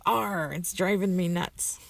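slow, lightly voiced pirate growl; a hint of a hammy pirate. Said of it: "And the pirate says".

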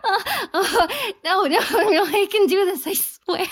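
giggling through the words; laughing helplessly while talking. Real, not acted. Can't stop laughing.

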